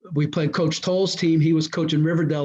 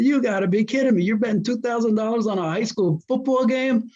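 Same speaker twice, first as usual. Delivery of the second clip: higher, incredulous protest; retold disbelief; 6 semitones higher than usual. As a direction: re-enact questioning a crazy bet. Retold disbelief at a big bet.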